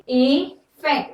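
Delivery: इफेक्ट drawn out, opening on i; slow careful word. Shown as a demonstration. Teacher writing the heading, saying इफेक्ट slowly. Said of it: "heading डाल देती हूँ".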